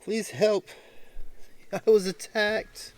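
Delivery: put-on hoarse, high pleading old man. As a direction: beg for help, hoarse and high. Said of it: "Hoarsely he calls out to you".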